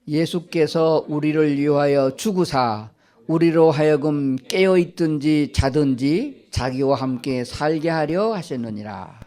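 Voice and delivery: slow, measured congregational reading; scripture reading aloud. Real, not acted. Preacher leading everyone in one voice, slow scripture reading. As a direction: read it out slowly for everyone to follow.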